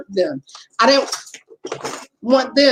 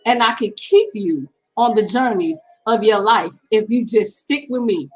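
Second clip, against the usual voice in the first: God speaking; 3 semitones lower than usual. Retold or imitated. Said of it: "So God was speaking to me and telling me".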